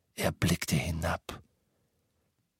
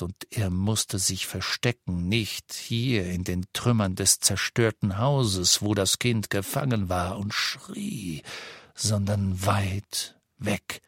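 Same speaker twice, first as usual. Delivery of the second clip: ordinary delivery, nothing marked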